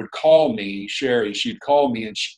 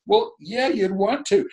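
higher, lightly voiced wife's answer; mock wife's answer; 9 semitones higher, slower than usual. Wife answering her husband about church attendance, higher mock voice. Wife's reply in retold exchange.

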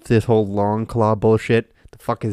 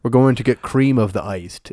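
mock stilted character voice; lightly put-on literal-minded hero; Knuckles. Mocking the character's backwards phrasing, lightly stilted imitation. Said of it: "He doesn't talk like that".

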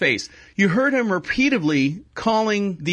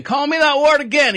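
mock yell, higher and louder; retold yell; 8 semitones higher, 5 dB louder than usual. Man fighting back yells his challenge again, mock yell. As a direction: push the repeat up into a yell. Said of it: "He's like".

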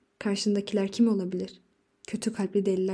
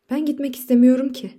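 higher, louder furious protest; a husband's loud angry protest; angry outburst; 4 semitones higher, 7 dB louder than usual. A narrator's reading. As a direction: slam the denial out in rage. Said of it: "delice bir öfkeyle".

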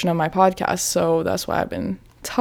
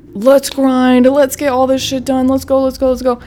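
rally yourself to get to work; hyped up; 5 semitones higher than usual. Retold or imitated. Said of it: "It's more like".

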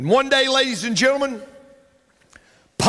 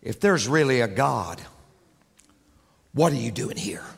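whisper; 10 semitones lower, 4 dB quieter than usual. Acted. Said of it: "Satan whispered in his ear".

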